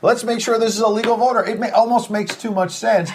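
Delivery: mock enthusiasm, voice lifted; sarcastic. Real, not acted. Anchor cheering on ballot checks as if it were novel, sarcastic. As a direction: pile on the suggestions with pointed irony. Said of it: "I'm obviously being sarcastic".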